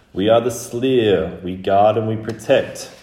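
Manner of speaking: put-on old, dry voice. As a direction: intone it as an ancient collective warning. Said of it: "very old and very dry".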